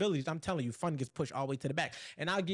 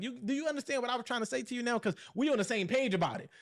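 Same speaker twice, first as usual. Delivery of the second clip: quick, higher-pitched checking in; non-attacking demo; 5 semitones higher than usual. Shown as a demonstration. Man showing how to remind his partner without attacking, quick non-accusing delivery. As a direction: demonstrate a tactful explanation. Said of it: "me representing it in that way".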